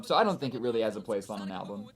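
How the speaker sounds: ordinary delivery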